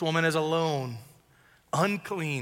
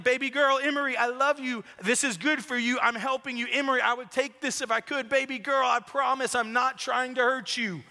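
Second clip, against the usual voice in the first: higher-pitched pleading dad, re-enacted; pleading reassurance; 5 semitones higher than usual. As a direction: plead lovingly with a crying baby, voice raised in pitch. Father voiced soothing his crying baby.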